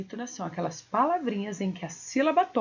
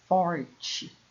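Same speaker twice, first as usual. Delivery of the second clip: "forte" set apart and leaned on; pause, then press on the FOR of "forte"; stronger stressed syllable; 3 semitones lower than usual. Shown as a demonstration. Teacher explains the tonic syllable, emphatic "forte". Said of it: "ela sai um som mais".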